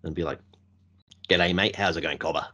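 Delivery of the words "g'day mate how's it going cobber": exaggerated Aussie greeting accent; broad, hammed-up Australian mateyness; full Australian. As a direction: lay on a full Steve Irwin style Australian accent. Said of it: "go full Australian".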